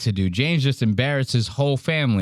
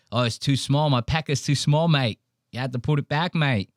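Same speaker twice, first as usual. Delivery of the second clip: mock Australian. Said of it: "he just goes".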